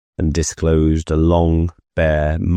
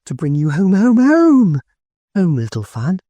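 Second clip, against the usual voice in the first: very high, loud, joyful repeated home; gleeful child; 13 semitones higher, 3 dB louder than usual. A narrator's reading. Little sister overjoyed to bring brother home, high gleeful cry. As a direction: clap and sing out home. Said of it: "clapping her tiny hands and bending down to laugh".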